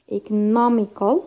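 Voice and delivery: "economical" slowly, stress on the NOM; stressed third syllable from end. Shown as a demonstration. Teacher showing students the stress rule, slow stressed "economical". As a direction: draw out "economical", leaning on third-last syllable. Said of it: "third from the end".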